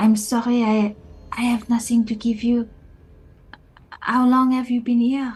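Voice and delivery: loud stage whisper. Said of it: "loud whispering".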